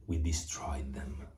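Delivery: hushed, breathy whisper. Real, not acted. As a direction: whisper it so nobody wakes up. Whispering so the son sleeps.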